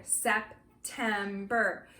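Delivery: September slowly in three separate chunks. Shown as a demonstration. Teacher putting chunks together, September slowly syllable by syllable. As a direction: join sep, tem, ber into September with small gaps. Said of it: "then I can put them together".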